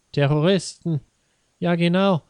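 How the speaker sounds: hammed-up indignant husband; indignant outburst. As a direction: blurt it out, worked up. Husband ranting at wife.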